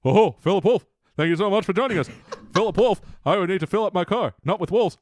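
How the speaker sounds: Robin Williams impression. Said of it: "Can you do Robin Williams?".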